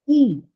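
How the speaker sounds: "e" held as a long ee sound; "e" sounded alone as a long ee; long vowel. Shown as a demonstration. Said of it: "The last one is a long vowel".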